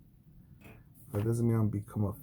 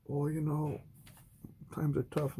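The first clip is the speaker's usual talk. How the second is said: higher, put-on pleading voice; mock whiny excuse; 6 semitones higher than usual. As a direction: whine like a broke moocher. Mocking an excuse maker.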